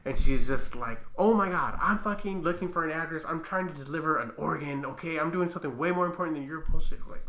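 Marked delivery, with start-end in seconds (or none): 1.2-7.0 mock exasperation. Entitled driver to security guard, mock exasperated. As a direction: act out her irritated outburst.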